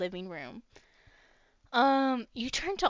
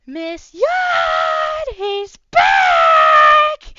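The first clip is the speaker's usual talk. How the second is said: much higher, loud excited shout; calling out; 17 dB louder, much slower than usual. Acted. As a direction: fire spirit shouting to Miss Yod upstairs, loud. Fire spirit calling out.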